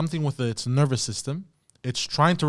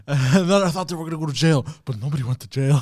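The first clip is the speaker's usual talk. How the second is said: put-on child voice; 4 dB louder than usual. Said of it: "like a little kid".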